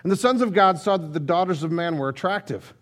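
measured, solemn Bible reading to the congregation; scripture reading. Acted. Preacher reading Genesis to the congregation, solemn and measured.

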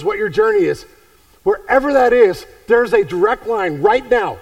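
loud, high, building sermon climax; full-force preaching. Acted. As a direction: lift them up with a ringing call.

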